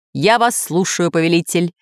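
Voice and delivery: a hint of a cold machine, crisply clipped; ice-cold computer. Computer answering the master, a hint of crisp coldness. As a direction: rap it out like a machine. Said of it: "отчеканил холодный как лёд голос".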